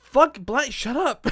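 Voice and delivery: high, loud, tearful snap; about to cry. Real, not acted. Flustered host shushes his co-host, about to cry. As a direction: lash out on the edge of tears. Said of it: "sounds like he's about to cry".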